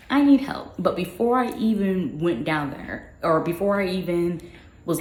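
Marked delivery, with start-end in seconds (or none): 0.1-0.7 high, loud retold plea; urgent plea. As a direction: call out for help, pitched up. Retells asking colleagues for help.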